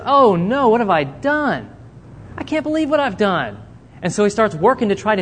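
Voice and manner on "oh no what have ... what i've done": mild dismay. Retold or imitated. Darius humbled realizing mistake.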